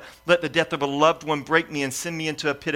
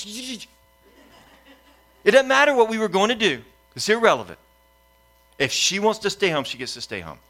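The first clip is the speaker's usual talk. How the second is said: higher, louder irritated retort; retold exasperated outburst, much higher and louder; fuming dad; 6 semitones higher, 3 dB louder than usual. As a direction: cut your wife off in frustration. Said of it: "I'm just fuming".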